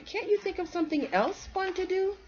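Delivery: high, whiny plea; little squirrel begging his friend; whining kid. Acted. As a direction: drag it out like a bored child. Squirrel whines.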